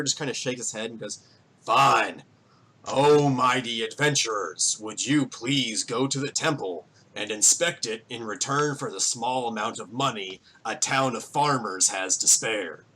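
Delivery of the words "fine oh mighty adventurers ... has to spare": slightly mocking grandiose request; grudging mayor laying on mock reverence; insincere, grudging plea. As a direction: beg heroes without meaning a word of it. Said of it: "That doesn't sound sincere".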